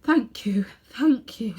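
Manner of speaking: faint whispered thanks. Acted. Shaken Uncle Andrew thanking the policemen in a faint whisper. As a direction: barely breathe the words out. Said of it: "said Uncle Andrew in a faint voice".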